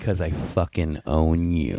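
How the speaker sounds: slow, low menacing threat; a hint of a menacing cop. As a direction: lean in and threaten slowly. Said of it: "He got in my ear".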